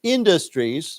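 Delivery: industries, stressing the final -ies clearly; correcting the plural. Shown as a demonstration. Teacher corrects student's industry to industries, slow and clear. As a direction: say industries slowly, leaning on the plural ending. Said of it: "has made a list of industry".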